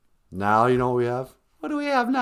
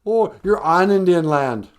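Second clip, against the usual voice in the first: mock whine; 6 semitones higher, 8 dB louder than usual. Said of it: "bitter crybabies who go".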